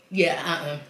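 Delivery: spitting out food; laughing after spitting out; mouth full of food. Real, not acted. Seen 1: Bites nugget, spits it onto plate at 0.1–0.3, then talks.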